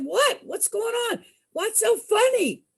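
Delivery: confused and a little offended; puzzled. Retold or imitated. Cousins puzzled by laughter.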